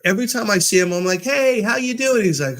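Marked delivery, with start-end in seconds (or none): 1.2-2.2 high, lilting hello to a coworker; cheery greeting. Retold or imitated. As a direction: greet them brightly with pitch up. Cheerfully greeting a bellman, retold.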